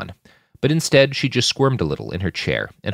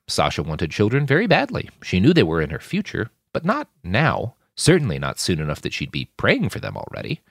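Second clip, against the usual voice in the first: usual speaking voice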